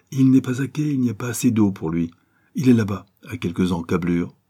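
indigène serviable. Acted. (voix légèrement jouée d'indigène serviable)

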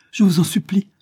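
high, breathless whispered begging; desperate hushed supplication; pleading whisper. A narrator's reading. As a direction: whisper the plea urgently. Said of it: "sollicitait Isabelle".

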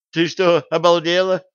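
high, loud shocked outburst; Alice can't believe what Lilian just suggested. A narrator's reading. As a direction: blurt it out in disbelief, loud and high. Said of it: "выпучила глаза Алиса".

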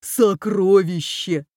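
slow, stretched-out exclamation; excited cry. A narrator's reading. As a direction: draw the word out in triumph. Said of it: "закричал Боря". (протяжно, с восторгом)

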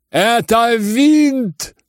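high, slow outraged shout. Acted. General to Ippolit, slow outraged shout. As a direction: yell it out at him. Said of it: "кричал генерал".

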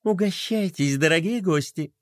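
gently cooed invitation; cooing. A narrator's reading. Princess offering tea to guests, cooing. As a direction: coax guests sweetly, a touch of cooing. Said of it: "ворковала она".

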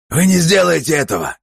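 high, loud desperate cry; father shielding family; desperate shout. A narrator's reading. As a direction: scream at him to stop. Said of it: "выкрикнул Мартин Брэме".

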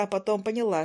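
plain reading voice

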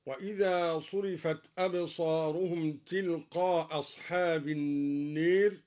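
measured recitation, one hamza after تلقاء, النير as an-neer; hamza dropped, short madd. Shown as a demonstration. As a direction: recite تلقاء أصحاب as tilqaa as-haab, short aa. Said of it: "مع القصر والمد هكذا".

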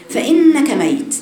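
drawn out, loud and weighty; a slow, loud final verdict; slow solemn emphasis. Acted. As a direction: land the warning slowly and hard. Climax of the hadith.

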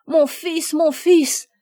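mother's loud, high-pitched cry; desperate cry. A narrator's reading. Agnella cries for her son inside the burning house, desperate. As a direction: cry out for your child in alarm. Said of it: "cria Agnella".

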